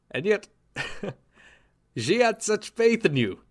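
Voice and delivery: gloating, with a cruel laugh in the middle; mocking laugh. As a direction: laugh at her lost faith. Villain gloats over a fallen hero.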